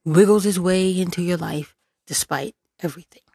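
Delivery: creepy whisper imitating his voice; mock whisper. Vlogger mocking Fauci's voice in a creepy whisper. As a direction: whisper it like a raspy little voice creeping in. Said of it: "his little raspy voice".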